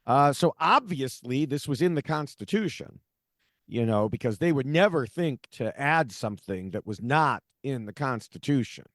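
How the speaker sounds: dry sarcasm with leaning emphasis; sarcastic. Real, not acted. Host jabbing at originalist justices for his listeners, sarcastic. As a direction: say it as if obvious, meaning the opposite. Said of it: "that's sarcasm font there".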